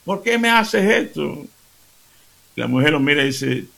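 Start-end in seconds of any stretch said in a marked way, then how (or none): 0.0-1.5 high pained complaint from the struck husband; mock crying out. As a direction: cry out hurt and indignant. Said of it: "Empieza a dar gritos".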